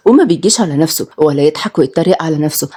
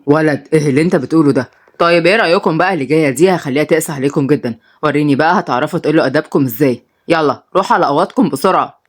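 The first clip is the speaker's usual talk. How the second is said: lower, scolding father voice; stern father; 6 semitones lower than usual. Acted. The minister scolds his twins, lower and stern. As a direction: lecture the kids from above.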